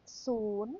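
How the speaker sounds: Soon with a rising lift at the end, spoken as a model; teacher demonstrating Thai "Soon"; Thai word soon. Shown as a demonstration. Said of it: "the easiest one".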